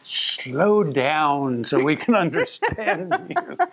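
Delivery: slow, laughing request. Retold or imitated. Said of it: "he spoke so quickly".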